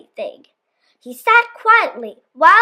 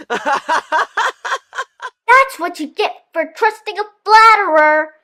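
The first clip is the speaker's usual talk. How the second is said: fox sneer; 3 semitones higher than usual. Acted. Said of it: "the fox sneered".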